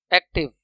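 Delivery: एक्टिव with a short break before टिव; broken into syllables. Shown as a demonstration. Teacher showing a break in the sound, एक्टिव split. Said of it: "टूट रही है आवाज".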